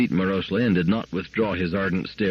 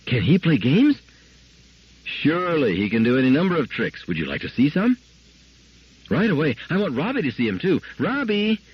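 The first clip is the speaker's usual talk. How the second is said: put-on high, eager little girl; child bouncing with excitement, pitched up; 8 semitones higher than usual. A narrator's reading. Excited child asking her parents about the new dog. Child Gloria voiced in story.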